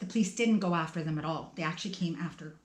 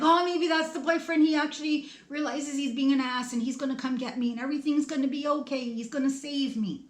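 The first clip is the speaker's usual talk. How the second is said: hopeful relief; 6 semitones higher than usual. Retold or imitated. Hoping the boyfriend came back.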